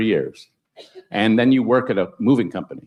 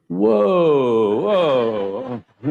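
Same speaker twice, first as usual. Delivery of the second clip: taken aback; 4 semitones higher than usual. Retold or imitated. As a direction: react as if the question hit hard. Teacher stunned by boy's question.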